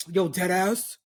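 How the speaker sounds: lightly imitated brash New York girl; a hint of a tough New York girlie; aggressive New York girlie. Host mimicking New York girls' talk, mock aggressive. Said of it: "the New York girlies, when they be talking".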